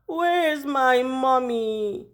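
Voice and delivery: put-on slow, whiny little-kid plea; scared little kid. Boy fearing the food chain, slow scared little-kid plea. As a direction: play it small and scared.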